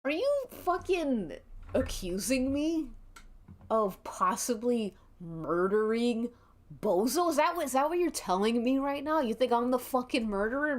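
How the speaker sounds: indignant as if he's the one wronged; pissed off. Acted. Marchie snaps at the player accusing him of murder, outraged. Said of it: "but he's like".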